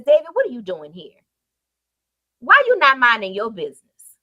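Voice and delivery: quick, pressing big-brother scolding; mild angry older brother. Acted. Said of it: "he lost his temper".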